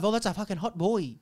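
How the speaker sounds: imitated Asian accent. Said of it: "I do it in this Asian accent".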